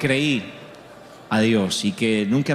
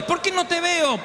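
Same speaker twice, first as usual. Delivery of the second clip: put-on old mother's voice. Mother insists.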